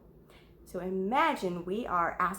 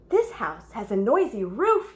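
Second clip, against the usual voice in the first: yell; 4 dB louder than usual. Acted. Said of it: "yelled Owl".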